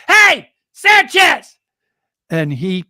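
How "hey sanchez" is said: put-on high, loud, drawn-out little girl's yell. Daughter yelling to the batter from the fence, a high drawn-out yell. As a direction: call out across the ballpark like a six-year-old. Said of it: "she yells to this guy".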